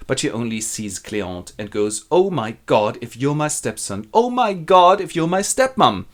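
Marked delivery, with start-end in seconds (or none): 2.1-4.1 hushed dismay. Acted. Lovers discover family tie, woman first. 4.1-6.1 higher, louder echoed shock; loud dismay. Acted. Lover echoes the realization.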